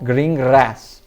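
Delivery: green grass with a trilled r, slow; Scottish accent. Shown as a demonstration. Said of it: "sotaque escocês".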